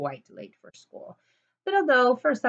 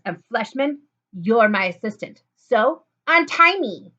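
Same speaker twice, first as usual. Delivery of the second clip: rising, louder bossy order, slowing at the end; bossy demand; 7 dB louder than usual. Acted. Lulu ordering her former assistant, bossy and louder. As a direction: demand it like a spoiled boss.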